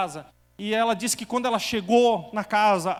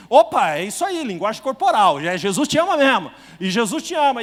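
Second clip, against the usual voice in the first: loud, tearful joy breaking into a laugh; exclaiming through happy tears; excited outburst; 2 semitones higher, 9 dB louder than usual. Retold or imitated. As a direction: cry it out with relief and joy. Retold joyful cry with the woman.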